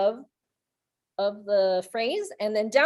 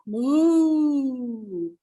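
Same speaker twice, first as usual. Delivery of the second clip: a light playful moo; mock cow moo. Shown as a demonstration. Teacher showing a cow sound to class. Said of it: "Like a cow".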